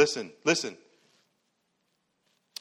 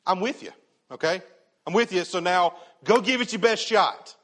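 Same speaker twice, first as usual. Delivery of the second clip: breezy sidekick Jesus; 5 semitones higher, 3 dB louder than usual. Retold or imitated. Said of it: "how not to read this passage".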